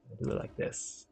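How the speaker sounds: whispered to himself; whispered aside while building. Real, not acted. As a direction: murmur it like a secret plan. Aside while placing road.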